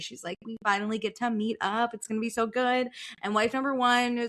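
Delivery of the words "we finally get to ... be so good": put-on excited character voice. Retelling a book's plot, voicing a character meeting her friend: imitating excited character. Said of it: "wife number two is so excited".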